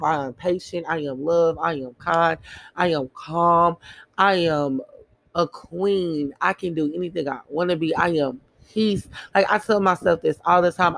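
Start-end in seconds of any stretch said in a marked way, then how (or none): 0.0-9.1 affirmations. Retold or imitated. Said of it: "I'm telling myself".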